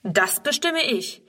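slow, commanding decision; the old man shows the girl who decides. Acted. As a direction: lay down the law like a director. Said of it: "dass er ein Herr Direktor ist, der das Befehlen gewohnt ist".

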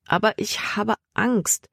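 high, mildly whiny worry; a touch of fearful whining; wailing. A narrator's reading. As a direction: lightly lament it, pitch lifted. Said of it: "jammerte Libby".

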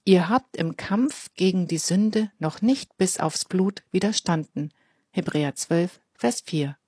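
slow, clear memory-verse recitation. Shown as a demonstration. Presenter reciting the verse with young listeners, slowly. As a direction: say it slowly for children to join in. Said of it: "Wollen wir den Vers zusammensprechen?".

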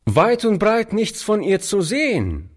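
put-on high boy's voice called across the street; a ragged lad calling out cheekily. A narrator's reading. Street boy calls across to old Oliver, high boy's voice. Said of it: "rief der Junge dem alten Mann zu".

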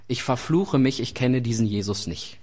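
low-pitched solemn disowning; understated, acted self-curse; grave denial. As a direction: swear it off in a dropped voice. Acts out third denial with curse.

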